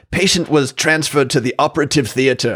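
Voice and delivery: lightly put-on British dictation voice; faux-British chart dictation; British accent. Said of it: "in British accent".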